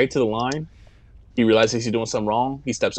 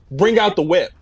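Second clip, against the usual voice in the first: imitating the villain; 5 semitones higher, 4 dB louder than usual. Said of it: "the exact sequence of events".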